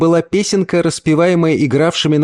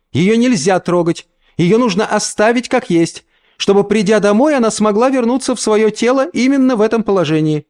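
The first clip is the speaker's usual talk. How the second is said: higher, firm, warning; firm mother; 8 semitones higher than usual. A narrator's reading. Mother warns the uncle not to touch the body. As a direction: lay down the rule.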